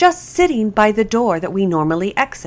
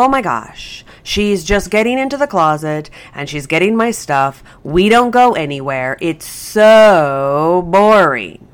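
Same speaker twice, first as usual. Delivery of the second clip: voicing the dog; 4 dB louder than usual. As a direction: play the dog, bored to tears. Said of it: "the dog, to go".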